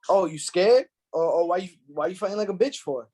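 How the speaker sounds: loud goading coach taunt. Retold or imitated. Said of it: "talking to them like that".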